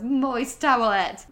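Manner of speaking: slow, laboured mock-British "moist towelette"; mock Cockney. Host imitating the club owner struggling with words, slow mock Cockney. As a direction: draw out a bad British accent. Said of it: "him trying to pronounce the words".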